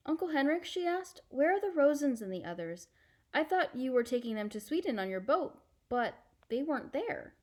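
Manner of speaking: put-on a girl asking her uncle gently; young girl. Anne-Marie asking Uncle Henrik in the barn, lightly girlish.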